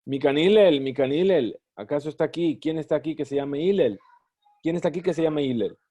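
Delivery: a touch of scorn, calling out at the door; mock the man sneering for Hillel; scornful. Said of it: "Y así preguntaba con desprecio".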